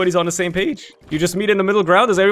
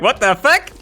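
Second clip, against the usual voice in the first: retold shock; 6 semitones higher, 5 dB louder than usual. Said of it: "I'm like".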